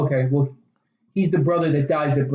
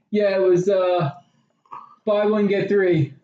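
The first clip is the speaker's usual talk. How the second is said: awkward made-up excuse; 4 semitones higher, slower than usual. Retold or imitated. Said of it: "And he's like".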